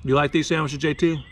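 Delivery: chewing between words; speaking mid-bite; talking with mouth full. Real, not acted. Seen 0: Bites and holds croissant sandwich at mouth while speaking, 0.8–1.8.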